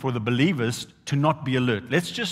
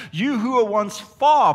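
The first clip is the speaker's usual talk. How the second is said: higher, louder, slower burst; proclaiming; 7 semitones higher, 6 dB louder, slower than usual. Acted. Preacher quoting Paul to the church with a loud lift. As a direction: ring the verse out.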